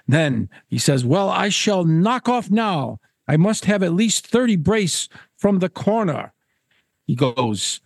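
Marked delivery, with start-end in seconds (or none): 1.1-6.3 pompous Caswell. Acted. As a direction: announce it grandly as a self-important angler. Caswell tries to quit.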